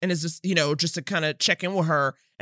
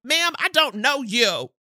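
imitating TJ shutting Mark down, higher and sassy; sassy TJ impression; 10 semitones higher than usual. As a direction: call out the stranger, head high and disbelieving. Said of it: "so real for her to be like".

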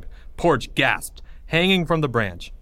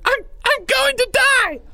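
loud, very high scream; panicked outburst; 5 dB louder than usual. Acted. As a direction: scream it, losing all control. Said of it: "Porge burst out, unable to control it".

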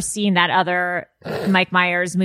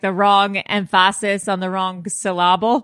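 "emphasis" and "syllable" stressed on their second syllables; misplaced stress; 2 semitones lower than usual. Retold or imitated. Quoting a film line to the co-hosts, misplaced stress on "emphasis" and "syllable". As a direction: put the beat wrongly on the middle of "emphasis" and "syllable". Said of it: "That's like the, um, Austin Powers".

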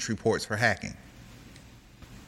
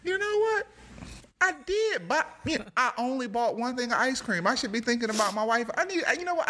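customer voice; 10 semitones higher than usual. Acted. Customer voiced in robot skit.

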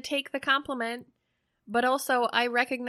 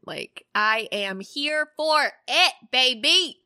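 hyped; 5 dB louder, slower than usual. Real, not acted. Hyped about the topic.

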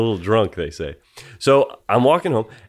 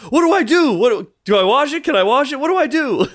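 high-pitched, hammed-up panic; mock helplessness; 13 semitones higher than usual. Jokingly asking a young stranger about his hat, mock helpless panic. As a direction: plead like you're utterly lost, as a joke. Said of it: "I was joking around".

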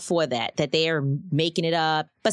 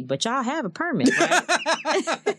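mom's innocent question; 8 semitones higher, slower than usual. Retold or imitated. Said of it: "she said to me".

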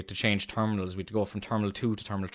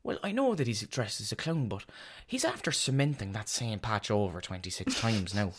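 nosy neighbour voice; 4 semitones higher than usual. Retold or imitated. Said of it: "the neighbours would be looking and be like".

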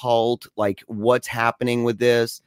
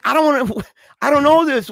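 whiny; 13 semitones higher, 4 dB louder than usual. Retold or imitated. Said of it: "I'm like".

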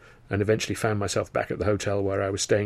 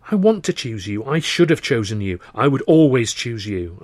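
fervently; 2 semitones higher, 6 dB louder than usual. Acted. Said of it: "I said fervently".

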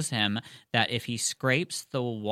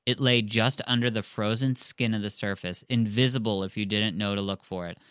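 measured audiobook reading; story narration. Acted. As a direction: read the passage aloud to listeners. Reads the book aloud.

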